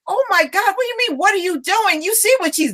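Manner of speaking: hammed-up exasperation; mock exasperation. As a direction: rattle it off as if it's obvious. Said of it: "And I'm like".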